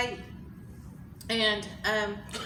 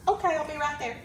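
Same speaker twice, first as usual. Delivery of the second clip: surprised; 5 semitones higher than usual. Real, not acted. Just won a raffle.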